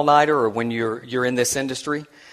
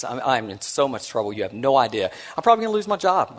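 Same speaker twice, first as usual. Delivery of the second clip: panicky; 4 dB quieter than usual. Retold or imitated. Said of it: "I was just panicky".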